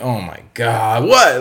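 jolted from sleep, alarmed; startled wake-up. Retold or imitated. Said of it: "I'm like".

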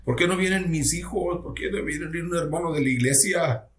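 high, plaintive questions, imitating crying; retold tearful pleading. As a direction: re-enact your own tearful pleading. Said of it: "Y yo llorando, dije". (súplica llorosa imitada, en voz aguda)

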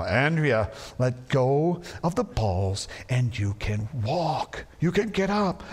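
slow, exasperated dad; losing patience, slowly; irritated. Retold or imitated. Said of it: "more and more irritated".

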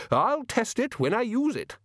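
high blustery wizard voice; booming old wizard; Ridcully voice. A narrator's reading. Ridcully quoted by Modo.

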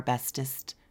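soft cutesy whisper. Real, not acted. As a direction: whisper it sweetly. Cutesy promise to listeners.

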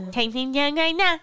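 drawn-out laughing imitation; laughing slow quote. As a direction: slur it while laughing. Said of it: "But she said".

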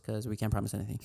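hushed, conspiratorial aside; whispered aside. Acted. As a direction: whisper it as a secret. Joking aside.

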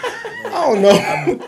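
high, drawn-out words through laughter; laughing. Real, not acted. Guessing where Chris Pratt is from, laughing. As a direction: laugh helplessly while admitting ignorance. Joking guess at actor's home state.

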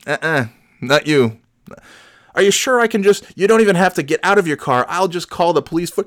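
meek helper voice. Retold or imitated. Retold helper offering again.

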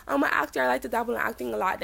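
flamboyant guy. Retold or imitated. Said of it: "definitely extremely flamboyant".

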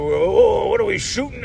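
half-formed impression of a bewildered actor; Al Pacino. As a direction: attempt a puzzled star actor, rising high. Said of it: "I can't do Al Pacino".

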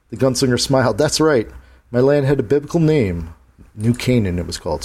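gunslinger voice. Acted. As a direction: speak like a tired old gunman. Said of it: "I had to speak like the gunslinger".

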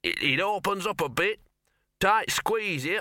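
muffled, from inside a tight gap. A narrator's reading. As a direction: voice squeezed through rock. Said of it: "a muffled voice said".

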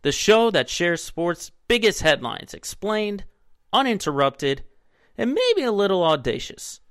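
upbeat sports show host; bright, lively announcer intro. Acted.

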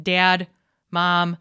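"dad, mom" with a slightly lengthened a; natural Michigan "dad, mom", vowel held a little; Midwest vowels. Shown as a demonstration. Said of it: "I'm elongating my ah".

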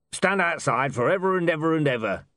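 high, odd beggar voice droning on. A narrator's reading. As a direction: drag out the ever and ever. Beggar lists a threat.

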